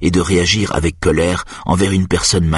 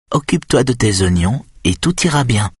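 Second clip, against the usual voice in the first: teasing; 7 semitones higher than usual. Acted. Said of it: "d'un ton taquin".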